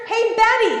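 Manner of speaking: calling a name out. Retold or imitated. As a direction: holler for someone in the next room. Calls wife in the back.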